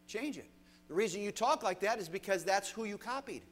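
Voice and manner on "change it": preacher repeating the order to fix their speech, falling to a close; falling command. Shown as a demonstration. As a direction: close it down firmly. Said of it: "repeated command".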